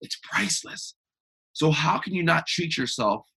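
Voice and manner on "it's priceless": whispered. Real, not acted. Hushed emphasis on priceless.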